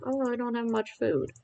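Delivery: mildly moan, imitating your own complaint; mock complaining. Streamer mocking their own earlier grumbling about food, mock complaining. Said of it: "I'm sitting here complaining like".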